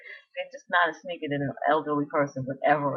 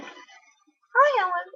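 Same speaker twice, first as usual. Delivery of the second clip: upbeat greeting; 6 dB louder, much slower than usual. Retold or imitated. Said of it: "She's like".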